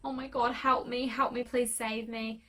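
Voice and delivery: mild mock panic, begging for rescue; lightly acted desperate plea; retold panic pleading. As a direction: flick into helpless pleading. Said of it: "I would flick back into".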